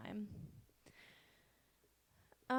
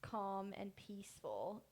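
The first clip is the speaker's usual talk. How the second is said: slow dreamy quote; slower than usual. Retold or imitated. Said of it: "and she said".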